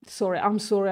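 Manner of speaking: talking while slurping a drink; words between sips through a straw. Real, not acted. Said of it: "I'm slurping".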